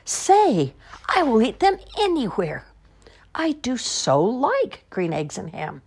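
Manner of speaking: slow whispered relish; delighted whisper. Acted. Whispered confession of love.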